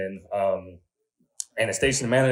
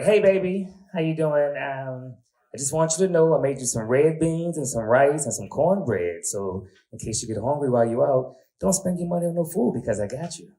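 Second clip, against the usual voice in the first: put-on high sweet old lady on the phone; grandmother voice; 4 semitones higher than usual. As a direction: coo like a doting grandma.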